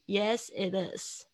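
"Yes, it is" run together, slowly; linked words. Shown as a demonstration. Teacher shows how "Yes, it is" connects, linked pronunciation. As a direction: join yes-it and it-is without breaks. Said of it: "又连在一起".

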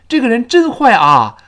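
loud, high "真坏啊" with bare "a"; awkward unlinked ending. Shown as a demonstration. Teacher showing an awkward version, "坏啊" unlinked. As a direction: split "坏" from "啊", no y glide. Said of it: "就非常别扭".

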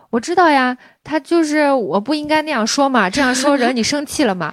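mother's placating tone. Retold or imitated. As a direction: imitate mom's sing-song placating. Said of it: "你看他的语气". (模仿妈妈敷衍哄人的语气)

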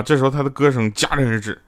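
normal talking voice

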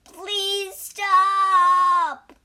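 high, loud pleading wail; drawn-out cry for mercy; pained cry. A narrator's reading. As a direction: beg loudly in agony. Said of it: "cried the monkey".

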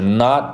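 "not" with the air blocked at the t; half-made T in "not"; stopped T. Shown as a demonstration. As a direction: stop the breath on the t of "not". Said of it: "进行一个空气的组织".

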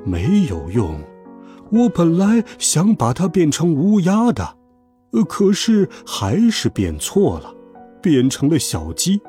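tag. Acted. Magician admits his spell misfired.

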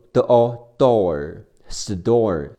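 "t" said as a d sound in "store"; sound blending. Shown as a demonstration. Teacher showing the changed t, slow sound blending. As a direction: slowly build "door" into "store" with a d sound. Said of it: "这里的特要变成的".

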